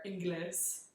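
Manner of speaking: "Ingles" said like Spanish, ending in a hissed s; Tampa pronunciation. Shown as a demonstration. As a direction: say "Ingles" as ING-lees, with an s ending. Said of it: "here in Tampa, we would say Ingles".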